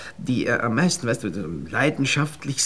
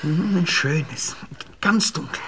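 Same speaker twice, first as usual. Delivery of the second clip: langsam, tonlos gehaucht; gehauchtes Flüstern; slower than usual. Acted. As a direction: haucht die Verlockung. Verführer lockt ins dunkle Zimmer. (verführerisch geflüstert)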